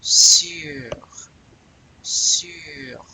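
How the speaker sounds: "sur" drawn out with rounded u; teacher's isolated "sur", long French u. Shown as a demonstration. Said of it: "That's another one of those U".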